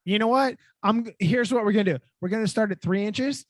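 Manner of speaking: loud, hammed-up interrogator threat; mock threatening. Host threatening a designer with Lego bricks, mock menace. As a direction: lay out the threat, playing tough.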